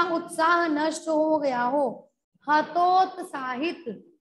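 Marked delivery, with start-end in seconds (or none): 2.5-4.1 हतोत्साहित stretched slowly, falling at the end; careful pronunciation. Shown as a demonstration. Teacher modelling हतोत्साहित for spelling, slow careful pronunciation. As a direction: draw out हतोत्साहित syllable by syllable. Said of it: "बहुत ही ध्यान से इनको सुनिएगा".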